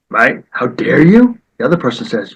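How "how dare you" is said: mock indignant yell. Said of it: "When someone yells".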